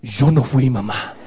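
put-on low, small, slow voice of a kid pleading innocence; meek child denial. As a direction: play the scared kid blaming his brother. Child denying to mother.

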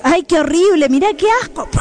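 exaggerated "yuck" reaction, rising at the end; mock disgust. Adult reacting to a little kid's drawing, mock disgust.

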